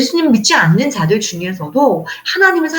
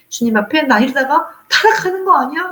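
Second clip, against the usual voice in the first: ordinary talk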